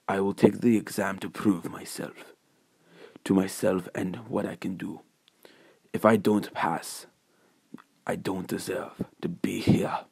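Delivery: lightly voiced, quiet resolve; earnest hero Deku. Deku tells Nezu he will prove himself, quietly resolute. Deku insists on taking exam.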